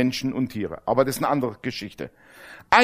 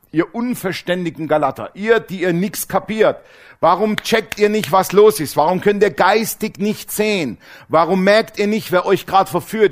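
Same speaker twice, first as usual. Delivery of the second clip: scolding Paul; 3 semitones higher than usual. Acted. Reading Paul's scolding letter.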